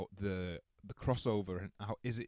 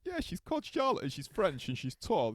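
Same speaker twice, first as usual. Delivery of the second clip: retold eager reply, high and a bit louder; 9 semitones higher, 5 dB louder than usual. Telling his friend about the girl from class, eager and pitched up. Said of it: "I was like".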